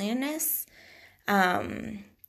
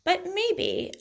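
ordinary delivery

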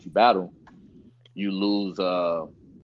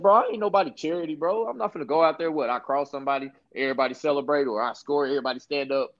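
prideful retort; 6 semitones higher, faster than usual. Retold or imitated. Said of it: "I said".

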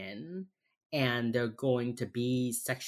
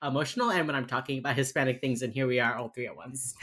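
Miami accent, casual. Real, not acted. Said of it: "my fucking Miami accent this whole episode".

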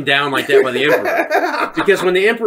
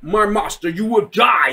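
slightly raised, hammed-up villain line; mock villain threat; 4 semitones higher than usual. Vader facing Obi-Wan in a retold duel, mock villain threat. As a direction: play at threatening your old master.

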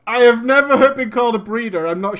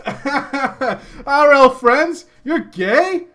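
mock shock; 5 semitones higher, 5 dB louder, much slower than usual. Voicing shocked friends.

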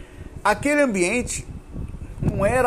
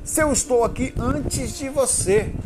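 spirit voice; 6 semitones higher, slower than usual. Retold or imitated. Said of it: "Mais ou menos assim ele falou".

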